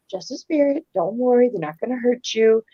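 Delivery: softly soothing, as retold; calm a frightened child quietly; gentle reassurance. Grandma to grandsons hearing things at night, gentle reassurance.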